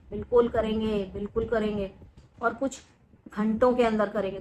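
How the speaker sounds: quiet menace. Real, not acted.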